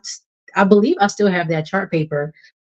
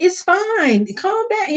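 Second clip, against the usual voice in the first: reassuring; 11 semitones higher, slower than usual. Retold or imitated. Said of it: "tell them it's okay".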